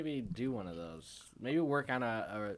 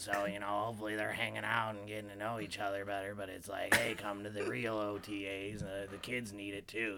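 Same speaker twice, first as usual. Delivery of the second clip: sports radio host. Acted. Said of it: "You're killing it".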